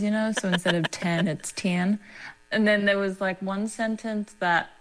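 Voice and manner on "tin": ten said as tin in the accent; the accent's E into I. Shown as a demonstration. Showing how the accent turns ten into tin. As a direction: turn the E of ten into an I. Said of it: "they turn the, like, E's into I's".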